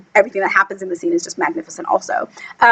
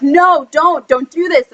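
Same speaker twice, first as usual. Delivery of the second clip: acted plea; 4 semitones higher, slower than usual. Voicing Tina's plea.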